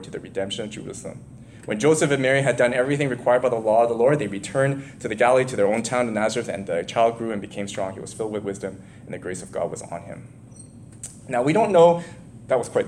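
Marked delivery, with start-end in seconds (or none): 0.0-10.3 breath running out, fading; reading on the last of the breath; running out of air. Real, not acted. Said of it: "wow, I'm running out of breath".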